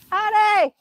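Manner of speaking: playful high-voiced hello; high silly greeting. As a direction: greet them in a high cartoon voice. Cheery greeting to viewers in put-on voice.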